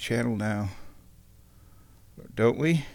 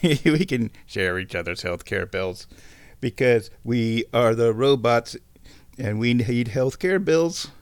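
toy robot voice. Pretend. Mimicking the robot sample.

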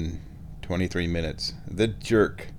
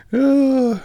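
loud, high drawn-out "oh" groan; 7 dB louder than usual. Real, not acted. Vlogger moaning about feeling terrible, high groan.

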